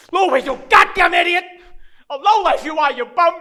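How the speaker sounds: loud, furious outburst at himself; loud self-disgust; angry self-berating. Acted. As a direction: shout abuse at yourself. Berates himself after kid leaves.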